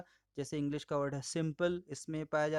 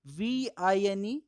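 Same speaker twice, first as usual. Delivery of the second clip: slow spelling; 3 semitones higher, 5 dB louder, much slower than usual. Shown as a demonstration. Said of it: "इसके बीच का difference".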